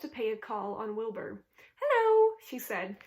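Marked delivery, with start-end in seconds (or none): 1.8-2.4 high, loud bleating greeting; old sheep voice. A narrator's reading. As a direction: call out hello like an old sheep.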